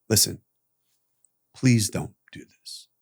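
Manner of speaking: grave, unhurried pleading; humble retold plea. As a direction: implore a friend quietly and sincerely. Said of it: "with all the humility".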